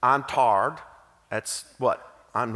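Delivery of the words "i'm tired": "tarred" said as Southern "tired", flat "ah" vowel; a lightly played Southern tired complaint; Southern drawl. Shown as a demonstration. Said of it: "tar can be used for three different items".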